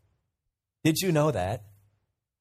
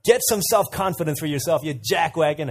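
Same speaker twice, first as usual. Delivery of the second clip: mock drill sergeant yell; 3 semitones higher than usual. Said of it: "starts yelling at him".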